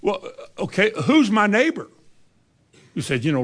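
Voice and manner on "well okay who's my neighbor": mock evasive lawyer. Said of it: "willing to justify himself".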